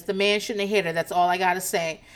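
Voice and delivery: calm retold statement; Karen. Recapper quoting woman after a fight, calm. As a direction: say it evenly, imitating someone calm. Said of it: "Karen just calmly says".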